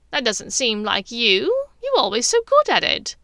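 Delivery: mildly confused, a touch surprised; mild confusion. A narrator's reading. Bellatrix puzzled that her sister forgot braiding, mildly confused. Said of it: "with mild confusion".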